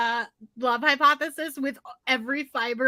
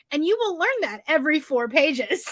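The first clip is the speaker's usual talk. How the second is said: laughing; 4 semitones higher than usual. Real, not acted. Punchline mocking a book.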